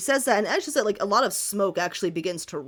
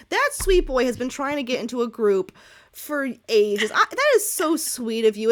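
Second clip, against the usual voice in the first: louder, gushing out of character; dropping the persona; 4 semitones higher, 5 dB louder than usual. Acted. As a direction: forget the act, just be delighted. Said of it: "dropped the pretense of this fortune teller persona".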